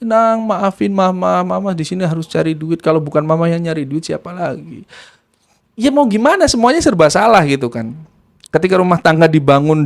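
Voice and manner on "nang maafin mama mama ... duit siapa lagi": mild weepy plea, trailing down; retold tearful apology. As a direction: act a mother begging forgiveness. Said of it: "ibu ininya juga nangis, minta maaf".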